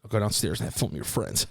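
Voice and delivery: quick laugh-through mom line; fake-sweet threat through laughter; laughing mock mom. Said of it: "she was like".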